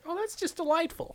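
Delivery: high, soft mock-British voice; put-on British. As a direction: play a dainty British accent, high-pitched. Joking about British accents.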